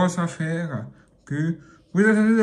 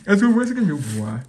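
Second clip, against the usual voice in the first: louder, eager repeat; excited; 5 dB louder, faster than usual. Shown as a demonstration. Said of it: "repeated louder".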